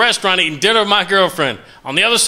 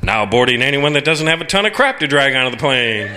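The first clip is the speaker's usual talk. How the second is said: gate announcer; 5 semitones lower than usual. Pretend. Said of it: "This is how I think they should board an airplane".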